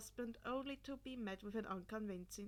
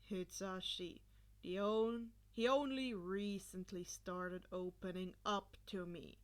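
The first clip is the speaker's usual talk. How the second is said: calm explaining; 3 semitones lower than usual. Acted. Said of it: "Shota explained calmly".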